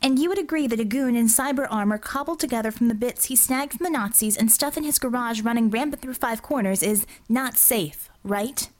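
lightly voiced argumentative officer; Bella, argumentative. Officer argues the goon was unsafe, argumentative. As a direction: press the case, ending on a pointed question.

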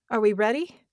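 eerie, loud inner voice; echoing doubled voice. A narrator's reading. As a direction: ask it in a strange doubled voice. Merged being asks itself.

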